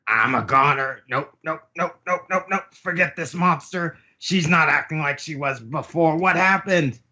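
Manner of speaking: high-pitched, hammed-up dread; acted panic. Queen silently panicking about Big Mom, high hammed-up fear. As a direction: rattle out the nopes in a high panic.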